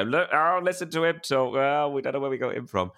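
high-pitched, gushing mock mum voice; imitating doting mum. Mum thrusting her child in front of people, imitated gushing. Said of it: "my mum loved and loved to thrust me".

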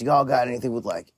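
lightly voiced Southern customer, easygoing; Southern accent. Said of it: "he sounded like Southern, which is why I'm doing that voice".

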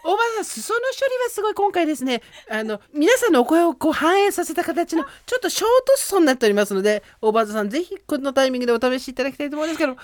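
high, brisk sales pitch; TV shopping host. Pretend. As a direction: sell the product with enthusiasm. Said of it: "ちょっとオーバーザさん売ってもらっていいですか？".

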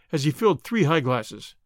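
ordinary delivery, nothing marked

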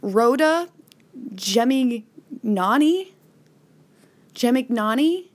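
unsure, careful go at pronouncing "Gemignani"; careful name attempt. Real, not acted. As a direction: sound out "Gemignani" tentatively, then repeat it. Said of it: "try and say this correctly".

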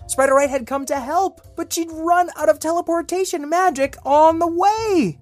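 high, breathless sprite; fairy voice. Pretend. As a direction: play a little magical sprite. Sprite O'Wright voice.

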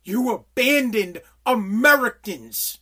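slow, loud accusing voice; angry confrontation. Retold or imitated. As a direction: lean in and blame each word. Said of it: "and say".

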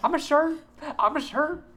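high singsong chant of shirt; singsong Raven. Retold or imitated. Raven dances over to the shirt side, high singsong. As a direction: chant it while dancing away. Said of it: "And then Raven goes".

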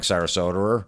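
"Sarasota" said as "Sarasoter"; an R in place of the last a of "Sarasota"; R on the end. Acted. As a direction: finish "Sarasota" on an -er sound. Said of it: "'cause I'm calling him out".

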